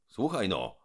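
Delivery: loud insulting call; Trull calling out. Acted. Trull shouts an insult at the mouth. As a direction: hurl the insult upward. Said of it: "woła Trull".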